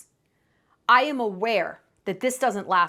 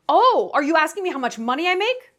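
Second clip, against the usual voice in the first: defensive man; 4 semitones higher, 4 dB louder than usual. Retold or imitated. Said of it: "shrill and defensive".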